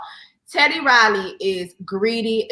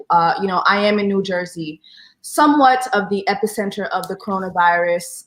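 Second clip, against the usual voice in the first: reporter voice; 3 semitones lower than usual. Acted. Guest putting on her reporter voice for the host. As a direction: report it like a TV correspondent. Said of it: "let me put my reporter voice on".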